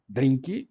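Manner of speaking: "Drink" as Brazilian "drinki"; non-English pronunciation. Shown as a demonstration. Teacher showing what isn't English, "Drink" as "drinki". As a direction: give "Drink" a second syllable, a final i. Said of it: "não é inglês".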